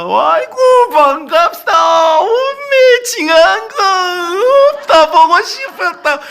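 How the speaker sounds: hammed-up Jeolla dialect welcome; effusive Jeolla greeting. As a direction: gush like a Jeolla grandma greeting family. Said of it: "근데 전라도는 어떻습니까?".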